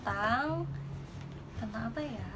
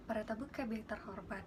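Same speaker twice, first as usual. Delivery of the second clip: flight attendant announcement; 5 dB quieter than usual. Shown as a demonstration. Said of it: "kalau aku sih kayak misalkan ya".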